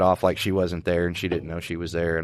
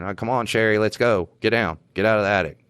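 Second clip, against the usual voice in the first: mild mock holler; retold hollering. Officer calling Sherry down from the attic, mild retold holler. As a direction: call up to her, only half raising the voice. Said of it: "and I'm hollering".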